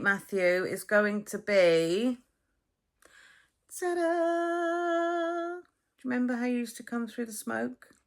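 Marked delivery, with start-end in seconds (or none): 3.8-5.6 high showy ta-da; ta-da fanfare. Real, not acted. Revealing tonight's dinner to Matthew, a showy ta-da. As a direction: present it like a reveal.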